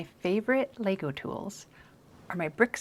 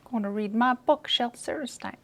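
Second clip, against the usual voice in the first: higher, uncertain British accent; attempted British accent; 5 semitones higher than usual. Shown as a demonstration. Trying out the author's name, higher mock British accent. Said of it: "British accent".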